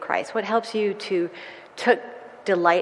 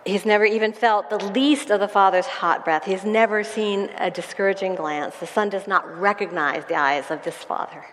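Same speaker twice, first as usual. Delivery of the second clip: dramatic reading. Acted. Pastor reads dramatic passage.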